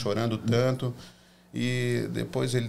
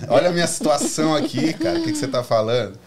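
exasperated outburst; 4 semitones higher, 8 dB louder than usual. Retold or imitated. Retelling his indignation at the pastor.

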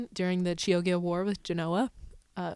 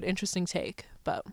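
whispered aside; 6 dB quieter than usual. Real, not acted. Grudging aside on the flip.

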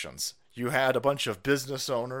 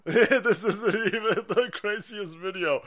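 higher, slow, laughing through it; 8 semitones higher, 3 dB louder, slower than usual. Real, not acted. Streamer repeats his line, laughing. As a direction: repeat it cracking up.

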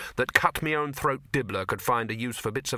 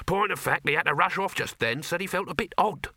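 higher, offhand hawker's patter; lightly voiced street vendor; 7 semitones higher than usual. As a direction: pass it on as a gossiping salesman. Dibbler reports, acted dialogue.

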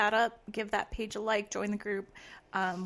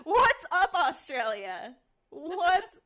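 excited greeting; 8 semitones higher, slower than usual. Pretend. Mock Aussie greeting to listeners.

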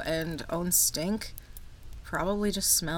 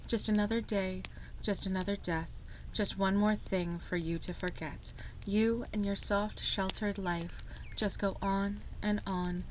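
poem reading. Acted. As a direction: read it like a grim poem. Reads a poem aloud.

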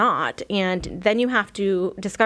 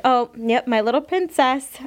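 fond, a bit higher pet name; playful loving tease on little princess; affectionate teasing; 4 semitones higher than usual. Retold or imitated. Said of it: "a nice way, nicer way".

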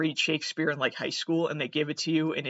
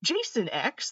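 higher, rising in disbelief; higher incredulous question; 6 semitones higher, slower than usual. Real, not acted.

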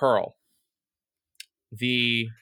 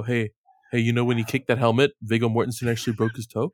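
fast eager know-it-all; eager trivia voice; 2 semitones lower, faster than usual. Retold or imitated. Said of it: "you're obliged to go".

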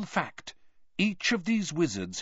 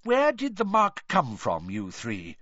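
quickly; 3 semitones higher than usual. Acted. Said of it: "said Mister Weasley quickly".

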